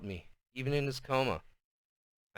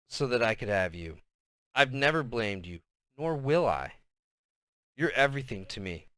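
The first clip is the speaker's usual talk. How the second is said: spoke softly. A narrator's reading. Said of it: "spoke softly".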